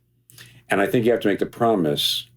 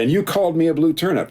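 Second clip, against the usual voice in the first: pitched way up, indignant jab; mock angry retort; 10 semitones higher than usual. Husband throwing an old insult back at his wife, mock indignant. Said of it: "I'm very angry with her".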